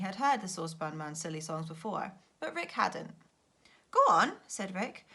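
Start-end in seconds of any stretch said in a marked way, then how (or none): 3.9-4.3 eager loud push; loud urging. Acted. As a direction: call it out eagerly. Rick urging Saucepan Man.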